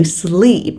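SLEEP with a stretched, tense ee; exaggerated long ee. Shown as a demonstration. Teacher exaggerates for learners to copy, drawn-out SLEEP. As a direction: overdo the long vowel in SLEEP. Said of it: "hơi cường điệu hóa cái từ".

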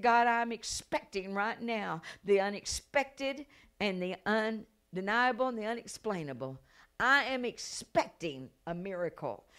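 firm, declaring appeal to God; insistent prayer. Retold or imitated. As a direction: pray it with emphatic expectation. Acts out prayer demanding a miracle.

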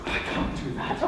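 breathless, voiceless protest; flustered pupil. Acted. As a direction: protest helplessly with hardly any voice. Flustered pupil balks at the move.

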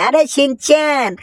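long slow shout for Shinchan; calling out. Acted. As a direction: call him from across the yard, slowly. Uncle calling Shinchan again.

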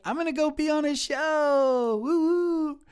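high, loud, gleeful brag; excited whoop of escape; gleeful announcement. Retold or imitated. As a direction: crow it out, ending in a whoop. Retelling her gleeful exit from work.

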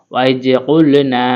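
কুলনা with ক from the back of the tongue, না held one alif; slow spelled-out কুলনা, back-tongue ক; careful spelling-out. Shown as a demonstration. Teacher sounding out the word syllable by syllable for students. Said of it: "জিব্বার গোড়া তারপর আফরা তালুর সঙ্গে লাগাই".

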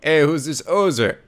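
slow try at Canadian; Canadian accent. Shown as a demonstration. Player retrying a character voice, slow Canadian accent attempt. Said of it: "I don't think I can do a Canadian accent".

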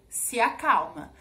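put-on slow, controlled command to a child; measured parental firmness; retold firmness. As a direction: quote a mother firmly telling her child, without shouting. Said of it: "passar aquela sensação de firmeza".

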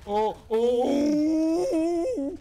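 high frantic cry for help; panicked yelling. Real, not acted. Flying away, panicking.

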